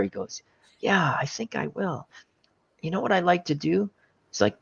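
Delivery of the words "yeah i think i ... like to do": lightly voiced menacing old man, taking his time; a hint of an unhinged old shop clerk; crazy old guy. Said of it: "he played the crazy old guy".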